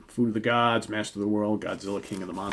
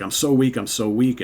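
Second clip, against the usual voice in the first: weak woman voice; 5 semitones higher, 8 dB louder than usual. Retold or imitated. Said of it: "Janet's like".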